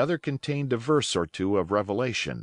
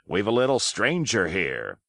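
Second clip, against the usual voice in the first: put-on hearty old pirate. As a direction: chatter on cheerfully, playing the host. Silver's voice held.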